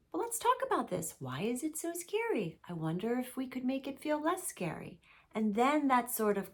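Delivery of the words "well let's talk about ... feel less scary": higher-pitched, lightly acted talk to a child; gently exploring parent. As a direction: coax a little kid to wonder along. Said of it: "Then we might be able to explore".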